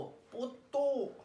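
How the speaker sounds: पोतोम very slow, तो drawn out and pressed; teacher drawing out तो of पोतोम for students; stretched stressed vowel. Shown as a demonstration. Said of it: "तो पे pressure पड़ रहा है".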